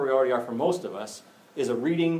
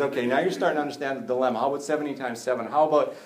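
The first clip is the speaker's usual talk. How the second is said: in-your-face Jesus; 2 semitones higher, 4 dB louder than usual. Acted. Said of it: "gets right in their face and says".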